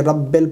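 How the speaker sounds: رب ال said as "rabbel", with an e; wrong vowel. Shown as a demonstration. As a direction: flatten رب ال to "rabbel". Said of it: "بعض لوگ غلطی کرتے ہیں".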